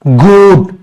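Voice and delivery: teacher modelling a short vowel; short vowel demo. Shown as a demonstration. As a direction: clip the u in गुड. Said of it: "जैसे देखो ना".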